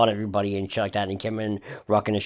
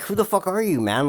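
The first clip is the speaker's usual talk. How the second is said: mock bouncer; 8 semitones higher than usual. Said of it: "they were like".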